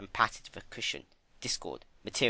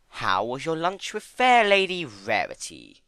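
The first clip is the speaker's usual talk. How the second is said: high, louder, slow courtly flourish; theatrical louder trickster voice; Discord, grandly; 5 semitones higher, 6 dB louder than usual. A narrator's reading.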